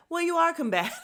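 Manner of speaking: high, loud retort in imitation; mimicking him going off. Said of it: "he starts going off and ends up saying".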